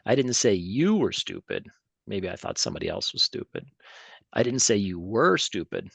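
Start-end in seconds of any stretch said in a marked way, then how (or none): 0.1-1.7 "you" lifted, falling finish; stress shifted. Shown as a demonstration. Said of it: "six different ways to say". 4.3-5.9 "were" pushed, falling finish; stress on were. Shown as a demonstration. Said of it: "six different ways to say".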